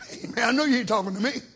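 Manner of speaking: low, soft, quick dismissive; rude attitude. Retold or imitated. Cain snapping back at God, quick and dismissive.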